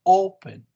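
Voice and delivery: "open" leaning on the O; stress on first syllable. Shown as a demonstration. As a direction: stress the opening O of "open", falling after it. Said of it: "The stress is here".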